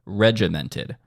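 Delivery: regimented with the weight on REG; stress on first syllable. Shown as a demonstration. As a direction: hit the opening syllable of "regimented". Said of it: "Notice where the accent is on that word".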